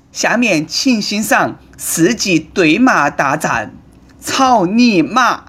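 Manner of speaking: slow, drawn-out stage announcer voice; grand show announcement. Pretend. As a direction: build it up like a gala host, stretching each word.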